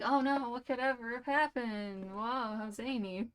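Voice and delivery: slow, sarcastic fake shock; slow deadpan mock astonishment; mock surprise. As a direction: play dumb, dripping with irony. Mock-innocent reaction to foreshadowing.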